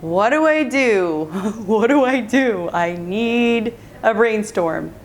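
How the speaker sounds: slow, drawn-out self-questioning; pondering aloud. Retold or imitated. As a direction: think it through slowly, stretching the words. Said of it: "I breathed a little".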